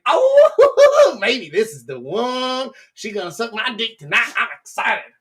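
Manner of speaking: hammed-up giddy anticipation; excited. Imagining a nervous guy spotting a girl, excited. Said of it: "You're gonna get excited thinking".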